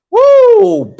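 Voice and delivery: high loud whoop; excited woo. Acted. Buyer whoops while waiting on her numbers. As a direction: whoop like you just won. Celebrating shout.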